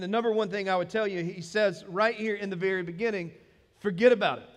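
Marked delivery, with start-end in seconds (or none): 3.8-4.5 loud, lightly put-on New York accent. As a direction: punch it out like a New Yorker. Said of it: "In your best New York voice".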